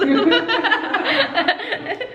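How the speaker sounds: speaking with a numbed mouth; words slurred by dental numbing. Real, not acted. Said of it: "So my mouth is numb".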